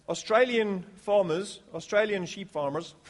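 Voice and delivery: badly attempted Australian accent. Shown as a demonstration. Preacher joking about sheep farmers, bad Australian accent. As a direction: have a clumsy go at sounding Australian. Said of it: "my worst attempt at an Australian accent".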